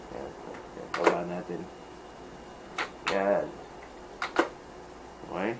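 muffled inside helmet; wearing full-face helmet. Real, not acted. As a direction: chin bar over mouth. Seen 1: Helmet worn with chin bar over mouth throughout; reference frames unworn.

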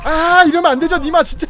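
frustrated outcry. Real, not acted. Streamer complaining at the game, exasperated and loud. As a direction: protest loudly at the bad luck.

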